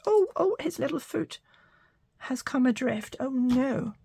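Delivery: high, cooing oh no for the little foot; high sing-song fuss over a tiny foot; dismayed oh. Real, not acted. Foot of the craft bunny falls off.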